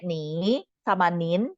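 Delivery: slow, contrasting tones on "ni" and "nin"; nada berbeda. Shown as a demonstration. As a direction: stretch "ni" and "nin", each with its tone. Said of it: "dua yang nadanya beda ya". ("ni" dan "nin" dipanjangkan dengan nada berbeda)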